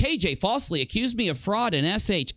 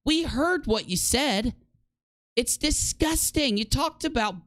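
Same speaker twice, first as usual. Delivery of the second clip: disgusted; 8 semitones higher than usual. Real, not acted. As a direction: spit out the disgust. Outraged at the claim.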